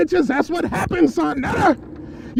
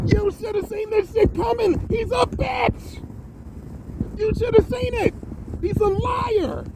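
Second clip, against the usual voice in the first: angry scolding; 8 semitones higher, 3 dB quieter than usual. Real, not acted. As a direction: hammer each word at her. Scolding the host.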